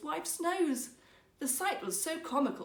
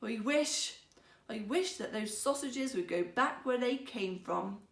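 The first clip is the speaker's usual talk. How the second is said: slowly. Acted. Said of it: "he said slowly".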